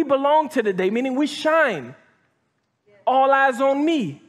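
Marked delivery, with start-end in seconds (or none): 3.1-4.2 a hint of a rapper, slow and drawn out; lightly doing a rapper, slow. Preacher quotes a rapper to the church, a hint of his voice. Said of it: "Tupac voice".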